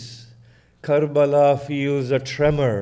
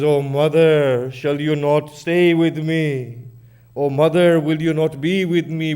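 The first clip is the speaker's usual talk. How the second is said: louder, pleading grieving dialogue; pleading lament; 2 semitones higher, 5 dB louder than usual. Acted. Hussein begging his mother to stay, loud grieving plea. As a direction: plead not to be left alone.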